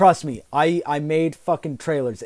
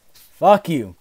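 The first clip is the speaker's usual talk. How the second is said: louder angry snap at the fans; raging gamer; 5 dB louder than usual. Real, not acted. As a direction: spit it out like a fed-up gamer. Ranting at the game company.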